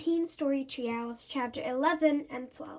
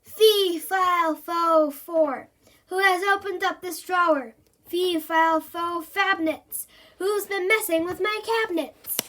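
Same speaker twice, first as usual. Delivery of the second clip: loud, high giant-style roar; roaring monster; 5 semitones higher, 5 dB louder than usual. Acted. Monster roaring at the opened drawer. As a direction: bellow the rhyme like an angry giant.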